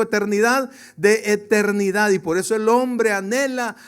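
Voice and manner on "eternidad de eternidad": "eternidad" called out louder for the church to repeat; leading a repeat-after-me. Shown as a demonstration. Preacher leading the congregation to repeat "eternidad", louder. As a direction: pronounce "eternidad" clearly so they echo it. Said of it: "Diga conmigo".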